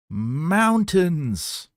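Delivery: very high, loud screamed word. A narrator's reading. Woman screams the answer under the gun. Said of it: "She screamed something high".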